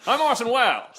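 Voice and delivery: vamp it up like a starlet; Mae West voice. Pretend. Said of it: "you sound like Mae West now".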